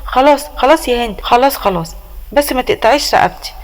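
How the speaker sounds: lightly voiced frightened plea to stop; mild mock fear, begging not to be hurt; scared pleading. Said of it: "جمال بخوف كده".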